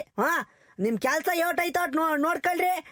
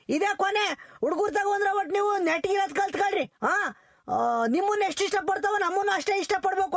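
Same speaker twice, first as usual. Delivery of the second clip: heated shouting, mocking "English teacher"; angry scolding. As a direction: berate her, voice raised. Angry teacher scolds colleague. (ಸಿಟ್ಟಿನಿಂದ ಜೋರಾಗಿ ಬೈಯುತ್ತಾ)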